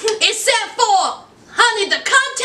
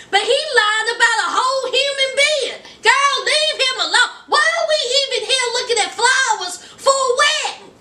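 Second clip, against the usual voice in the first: high, laughing and half crying through it; laughing disbelief; 5 semitones higher than usual. Retold or imitated. Cousin laughing at Anissa's lying man, high and giddy. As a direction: crack up at how bad he is.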